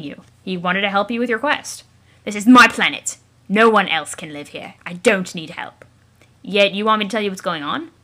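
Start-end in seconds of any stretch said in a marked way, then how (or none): 2.2-5.8 possessive declaration. Acted. Troll asserts ownership angrily.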